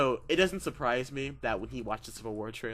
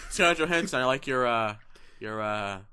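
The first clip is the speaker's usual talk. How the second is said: put-on kid voice; 6 dB louder than usual. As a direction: bounce it like a teen fan. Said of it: "continuing the teen Holland bit".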